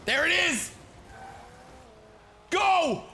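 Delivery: high, loud cheering yell; excited shout. Real, not acted. Gamer celebrating a goal, loud cheering yell. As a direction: shout it at the screen.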